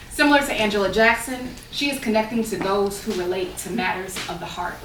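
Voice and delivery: measured, articulate public reading; formal read-aloud delivery; essay reading. Acted. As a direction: read the essay out to an audience, stressing phrase openings.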